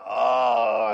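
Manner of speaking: long, drawn-out mock moan; sustained groan, acted out; imitated labor moan. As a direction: mimic a woman moaning in labor. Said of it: "screaming and moaning".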